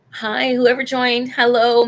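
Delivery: high, loud hello to newcomers; welcoming the new viewers in the chat, bright loud hello; cheery greeting. Real, not acted. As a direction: call out brightly to the viewers joining.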